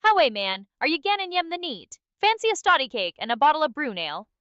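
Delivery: second attempt at a Geordie accent. Shown as a demonstration. Another go for the chat, exaggerated Geordie accent. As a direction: lay on the Geordie dialect. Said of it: "get this Geordie thing right".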